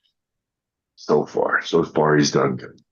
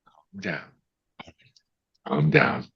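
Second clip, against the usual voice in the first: hushed, whispered command to settle; dad's calming voice; 5 dB quieter, slower than usual. Retold or imitated. Dad calming his choking child, whispered. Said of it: "And he had this voice".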